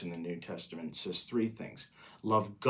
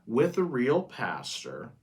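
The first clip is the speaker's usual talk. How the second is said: slow phrase leaning on "real"; stress on REAL; slower than usual. Real, not acted. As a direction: put deliberate weight on the word "real". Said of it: "Emphasis on the real".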